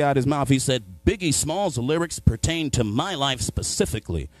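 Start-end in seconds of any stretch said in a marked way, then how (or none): 1.1-4.3 measured, over-precise put-on voice; white friend impression. White friend claims Biggie's lyrics, mock precise voice. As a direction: say each word slowly as the earnest white friend. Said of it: "he white".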